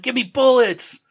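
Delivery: high, loud hammed-up demand; mock demand. Frank mocked, demanding bullets from the racist in a high loud voice. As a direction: bark for bullets in a cartoon voice. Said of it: "He's like".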